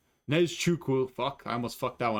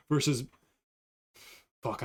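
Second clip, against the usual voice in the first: ordinary talk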